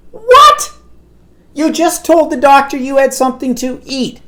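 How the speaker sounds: high, loud exclamation of disbelief; shocked disbelief. Real, not acted. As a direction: exclaim in sheer disbelief at her. Speaker's disbelief at mother.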